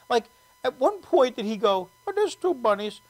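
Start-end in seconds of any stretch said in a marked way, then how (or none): 2.1-3.0 imitating a friendly Indian accent. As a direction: count along in an Indian accent. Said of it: "I love doing that accent".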